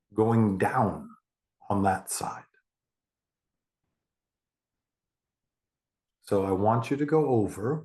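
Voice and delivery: unhurried guided meditation with long pauses. Acted. Therapist guiding a client to imagine stairs down, guided meditation. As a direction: lead them through the imagery, pausing between phrases.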